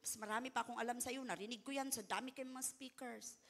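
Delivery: quick, dismissive brag; lightly voiced proud listener, quick and dismissive; mock proud boast. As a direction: toss it off like a know-it-all. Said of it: "nagiging proud".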